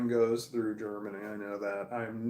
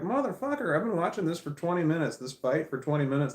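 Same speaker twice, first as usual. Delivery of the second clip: fed-up rant; 3 semitones higher than usual. Retold or imitated. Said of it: "And I'm like".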